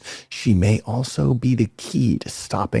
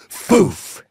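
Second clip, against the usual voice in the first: gasp for air; 6 semitones higher, 3 dB louder than usual. Real, not acted. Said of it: "do it in one breath".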